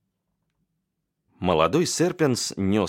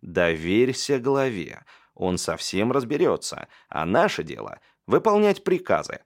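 смягчившись; 2 semitones higher than usual. Acted. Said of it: "смягчившись, добавил".

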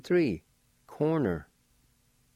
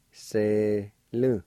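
two syllables, briefly separated; measured teaching pronunciation. Shown as a demonstration. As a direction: sound it out in two pieces. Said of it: "I'll pronounce these words".

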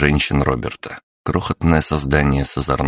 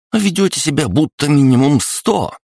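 high-pitched, louder squeal; shrill squeal; 12 semitones higher, 4 dB louder than usual. A narrator's reading. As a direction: squeal it out indignantly. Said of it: "взвизгнул Константин".

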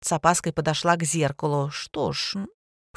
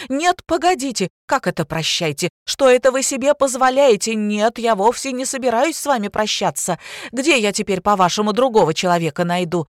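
loud, pushing outrage; indignant; 4 semitones higher, 5 dB louder than usual. A narrator's reading. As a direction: refuse to accept the goodbye. Дина в негодовании по телефону. (Дина возмущена отказом, громкое негодование)

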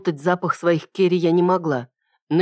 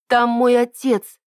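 slow, louder and higher, stressing «там»; insistent; 7 semitones higher, 3 dB louder, slower than usual. A narrator's reading. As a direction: repeat it pleadingly, «там» stressed. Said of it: "повторила я".

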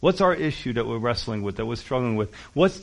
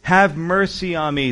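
crying out; 4 semitones higher, 4 dB louder than usual. Acted. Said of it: "he starts to cry out".

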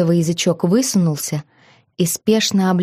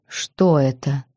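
lower, softer hoarse question; the voice catches and comes out low; a husband stunned by what his wife reveals, hoarse and hushed; hoarse, too quiet; 4 semitones lower, slower than usual. A narrator's reading. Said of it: "Голос охрип, так что вопрос прозвучал слишком тихо".

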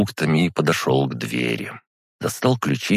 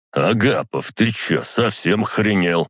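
higher-pitched, affronted neighbour; drawling rude neighbour; 6 semitones higher than usual. A narrator's reading. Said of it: "протянул он".

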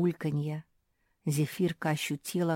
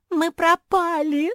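much higher, louder slow wail; sobbing; 13 semitones higher, 10 dB louder, slower than usual. A narrator's reading. Kuki sees the storm clouds, sobbing. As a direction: wail in despair. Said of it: "зарыдала Куки".

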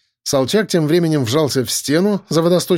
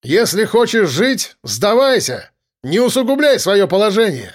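firm shout; 7 semitones higher than usual. Acted. Narrator urging surrender.

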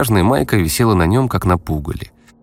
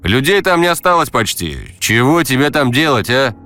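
rural man voice; 7 semitones higher than usual. Acted. Man talks him out of it.

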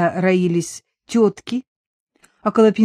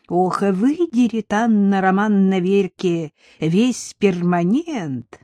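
медленно, смакуя сплетню, иным голосом; старушка с удовольствием пересказывает слух; сплетничающая старушонка; 2 semitones higher, slower than usual. Acted. (старушонка смакует сплетню о Верке)

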